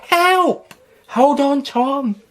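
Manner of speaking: high, loud frantic call; ऊँची, घबराई पुकार. Acted. Child and rescuer calling out.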